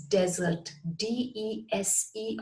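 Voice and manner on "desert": "desert" as DEZ-ert, the noun; first-syllable stress. Shown as a demonstration. Teacher compares spelling with the noun, "desert" as DEZ-ert. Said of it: "spelt in exactly the same way as".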